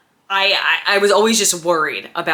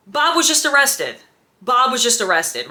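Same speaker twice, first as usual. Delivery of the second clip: stunned disbelief; 5 semitones higher than usual. Retold or imitated. Stunned, telling her friend.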